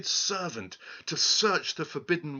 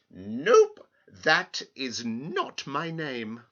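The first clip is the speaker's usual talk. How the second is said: little man's flat nope; 5 dB louder, much slower than usual. Acted. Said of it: "simply replied".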